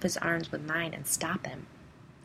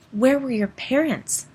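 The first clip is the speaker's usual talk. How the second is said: much higher and louder, slowed; demanding; 8 semitones higher, 8 dB louder, slower than usual. Acted. Listener demanding where the parents were, loud. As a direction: press him hard for an answer. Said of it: "I demanded".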